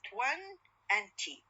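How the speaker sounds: TWEN and T said as two separate syllables; split into syllables. Shown as a demonstration. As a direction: break twenty apart into "twen" and "t". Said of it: "consists of two syllables".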